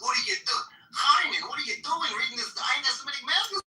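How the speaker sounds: high, indignant mock astonishment; incredulous joke character. Telling a joke, one man challenges his friend, high mock outrage.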